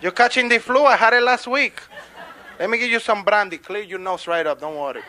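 loud, friendly bar owner fussing over a customer; Pablo. Acted. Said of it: "He says".

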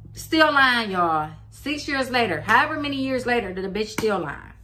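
high and loud indignant jab at the ex; indignant outburst. Real, not acted. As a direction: call her out to the viewers, outraged. Indignant aside to audience.

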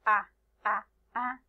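A as a separate, open vowel sound; isolated A sounds with short gaps; letter sound A. Shown as a demonstration. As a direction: sound out A, one at a time. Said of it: "el sonido de la letra A es".

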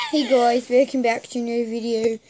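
put-on Australian accent; lightly attempted Australian-sounding accent. Friend welcoming viewers to the video, put-on Australian accent. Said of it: "Yours is Australian".

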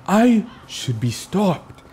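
drawn-out mock villain boast; slow hammed villain. Gamer boasting about his overpowered build, slow hammed-up villain. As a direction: savor each word like a proud villain.

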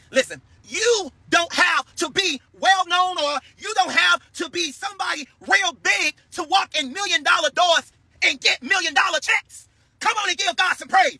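slow, shouted preaching, voice near crying. Real, not acted. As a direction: preach it out, almost in tears. Preaching at full force.

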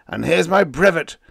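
loud, furious throw-down; angry. Acted. Captain quits the company in a loud rage. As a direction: hurl the words after the epaulettes. Hansen hurls emblem in rage.

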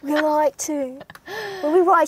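playful impression of a band member, Liverpool accent; a singer. Introducing himself as a member of a famous band, in a mock Liverpool accent. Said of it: "I'll be Paul".

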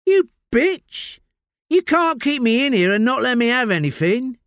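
high, loud shrieking rage at the detective; furious outburst. Acted. Layla screaming at Josie who refuses her drugs. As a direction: spit it out in fury. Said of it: "Layla voiced, outburst".

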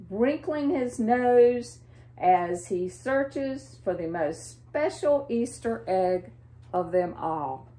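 put-on lively read-aloud for little kids; storybook reading. A narrator's reading. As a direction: read it like a picture book to children.

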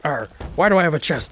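growly pirate arr talk. Acted. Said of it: "how much you hated my pirate voice".

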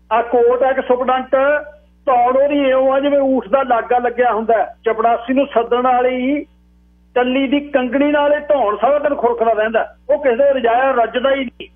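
high, sustained declaiming voice; mock him in a high public call; high-pitched ridicule for a crowd; mocking crier.

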